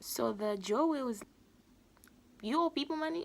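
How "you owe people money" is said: high, loud disbelieving question; mock shock. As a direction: play up the shock at his debt. Joe reacts to debt news.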